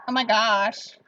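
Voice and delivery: put-on a lighter take on valley girl; plain-voiced valley girl. Shown as a demonstration. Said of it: "Or like".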